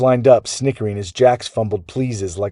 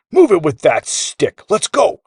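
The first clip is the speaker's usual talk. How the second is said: high-pitched bossy holler; giant hollering; 9 semitones higher, 4 dB louder than usual. A narrator's reading. Magic gear replays his bossy words, hollering. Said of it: "like a giant hollering through a megaphone".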